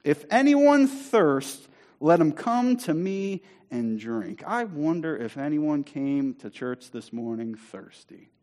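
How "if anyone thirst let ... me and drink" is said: Jesus proclaiming. Acted. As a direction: stretch out the invitation to the crowd. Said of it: "That's what Jesus is proclaiming".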